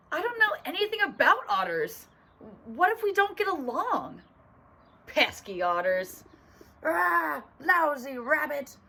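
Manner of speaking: worried cartoon rabbit, rising in disbelief; alarmed rabbit. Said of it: "He's already imagining all the fights".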